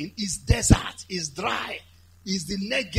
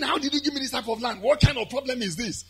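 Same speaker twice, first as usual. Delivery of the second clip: quick, higher mock complaint; complaining; 5 semitones higher, faster than usual. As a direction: grumble fast as an imagined objector. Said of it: "instead of complaining".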